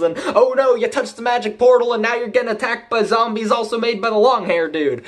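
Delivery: lightly hammed-up mocking rundown; mock recap voice. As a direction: poke fun at the plot breathlessly. Mock summary voicing the show.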